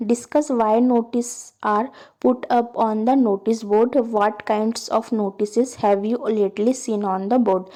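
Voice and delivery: slow, deliberate read-aloud of a task; slow textbook reading. Acted. Teacher reading the textbook task to students, slow and deliberate. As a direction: read each word out slowly for the class.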